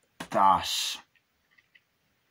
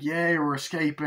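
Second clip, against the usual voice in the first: mock cheer; 5 semitones higher than usual. Acted cheer while escaping.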